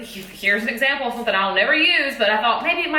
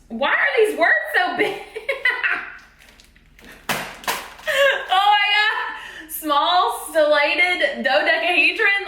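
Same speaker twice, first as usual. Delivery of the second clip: surprised; 6 semitones higher, slower than usual. Real, not acted. Baffled by long shape names.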